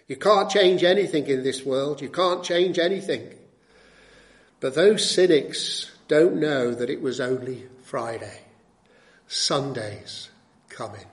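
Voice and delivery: lightly voiced preacher, loud then dropping low; imitating a pastor. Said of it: "this African-American pastor said".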